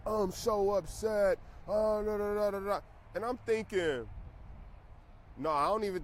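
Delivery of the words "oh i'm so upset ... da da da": high, whiny mocking voice; mock whiny investors. Mocking people upset about missing Bitcoin, whiny and high. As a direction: parody people moaning about missed gains. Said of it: "And people are like".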